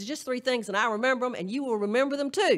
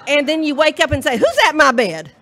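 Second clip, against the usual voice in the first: laughing joke; 4 semitones higher, 8 dB louder than usual. Real, not acted. Joke told laughing, louder.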